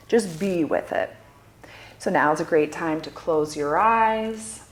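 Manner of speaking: measured meditation guide, with long pauses; guided meditation. Acted. Guide inviting listeners to notice their breath, guided meditation.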